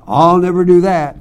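bold, punched-out denial; confident vow. Retold or imitated. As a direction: blurt it out with total certainty. Solomon's confident vow acted in preaching.

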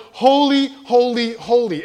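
seraphim's cry echoed to the youth. Shown as a demonstration. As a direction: call out each holy, fading down. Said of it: "crying out".

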